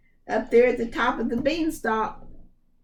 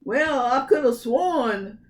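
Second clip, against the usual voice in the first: muttered; 4 semitones higher, 4 dB louder than usual. Acted. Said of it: "muttered the ogre".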